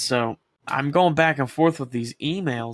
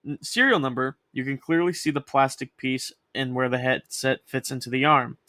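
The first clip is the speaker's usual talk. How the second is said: reading an email; 2 semitones higher than usual. Shown as a demonstration. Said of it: "I'll read it right now".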